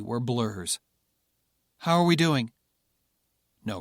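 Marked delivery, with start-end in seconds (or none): 1.8-2.5 concerned call. Acted. Pilot checks on silent Patrick.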